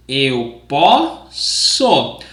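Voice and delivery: slow, careful teacher model; slow model phrase. Shown as a demonstration. Teacher modeling slowly for the class to repeat. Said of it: "Repeat after me".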